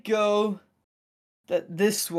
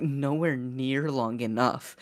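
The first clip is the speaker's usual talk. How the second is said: imitated swooning; 5 semitones lower, 6 dB quieter, slower than usual. Quotes Nori swooning over sexy voice.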